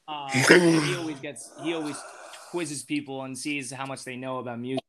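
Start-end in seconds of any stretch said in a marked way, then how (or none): none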